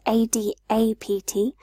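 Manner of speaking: A D A P T spelled letter by letter; spelling out letters. Shown as a demonstration. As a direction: spell out A D A P T one letter at a time. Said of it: "and adapt".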